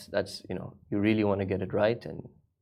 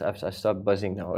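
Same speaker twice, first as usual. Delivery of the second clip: normal talking voice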